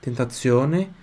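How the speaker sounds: tentazione with the z said as ts, ten-ta-tsio-ne. Shown as a demonstration. Teacher showing the class that z in tentazione sounds ts. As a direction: say tentazione with a crisp ts for the z. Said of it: "Z som de T S".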